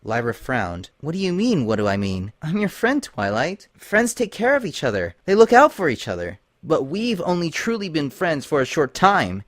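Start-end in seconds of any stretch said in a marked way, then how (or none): 1.0-6.4 higher, earnest pony voice urging unity; Lyra pleading. Acted. Lyra urging Twilight to face the princess together, higher and pleading. 6.6-9.4 slightly higher, doubtful voice; wary Twilight. Acted. Twilight doubting Lyra's friendship, mildly wary.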